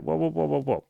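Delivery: whoa, hold on there; gentle whoa. Retold or imitated. Coach stopping apologetic client.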